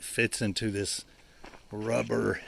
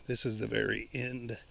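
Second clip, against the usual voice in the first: out of breath. Real, not acted. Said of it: "I'm out of breath".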